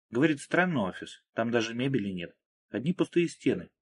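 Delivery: ordinary delivery, nothing marked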